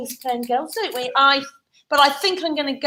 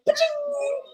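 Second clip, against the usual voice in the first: high, softer imitated magic chime; magic fairy ding; 13 semitones higher, 3 dB quieter than usual. Shown as a demonstration. Storyteller shows the fairy how to appear, high ding. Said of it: "I need a fairy to go".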